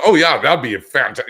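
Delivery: a mildly imitated eager client; retold excitement. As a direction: mimic her getting all excited. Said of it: "she just got all excited".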